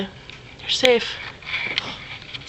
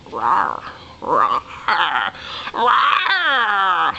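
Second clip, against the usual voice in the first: plush dino voice; 3 semitones lower than usual. Pretend. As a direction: whine like a toy dino who wants teeth. Voicing plush dinosaur.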